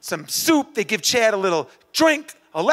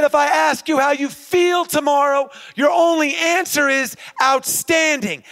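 commanding shout; 3 semitones higher than usual. Retold or imitated. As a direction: bark it like a coach. Chad giving orders.

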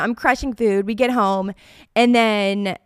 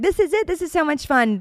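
retold excitement; 7 semitones higher than usual. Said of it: "I'm like".

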